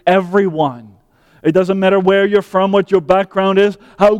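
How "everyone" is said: everyone said as one weighty, falling word; stress on everyone. Shown as a demonstration. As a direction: lean on everyone and let it drop. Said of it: "we emphasized that word".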